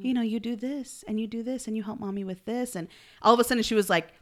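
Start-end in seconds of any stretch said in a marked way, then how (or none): 0.0-2.8 tender reassurance. Retold or imitated. Voicing mother reassuring her daughter.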